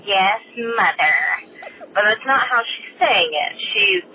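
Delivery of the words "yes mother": put-on snotty teenager. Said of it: "typical teenager going".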